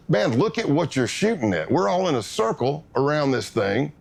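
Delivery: animated, incredulous protest; urgent protest. Retold or imitated. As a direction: retell arguing with the man holding the gun, pitch swooping up. Retold protest at a shooter.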